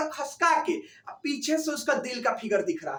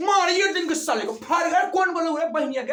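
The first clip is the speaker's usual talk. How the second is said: raised, higher confrontational voice; mock angry outburst; 4 semitones higher, 4 dB louder than usual. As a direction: challenge the culprit in acted outrage. Riña actuada por silbar a la hermana.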